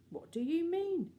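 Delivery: high, startled question; puzzled question. Acted. The puzzled lady asking Anthea, high and startled. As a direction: ask in bewilderment.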